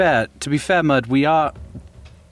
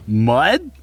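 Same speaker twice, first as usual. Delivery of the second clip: surprised in Draconic; 7 semitones higher, much slower than usual. Acted. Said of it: "and in Draconic".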